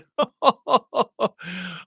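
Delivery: a burst of open laughter; real laugh. Real, not acted. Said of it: "I'm laughing my arse off".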